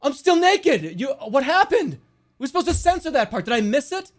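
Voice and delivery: high, loud mock freakout; yelping disbelief at a stream mishap; outraged retelling. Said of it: "And I'm being like".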